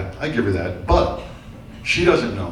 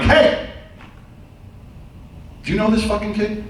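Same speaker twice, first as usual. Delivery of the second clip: mock shout; 6 semitones higher than usual. Shouting at wife during frisk.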